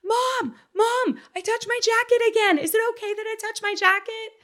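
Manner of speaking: high-pitched imitated kid calling Mom; child calling out. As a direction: pitch way up like a small boy calling out. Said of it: "screaming across the playground".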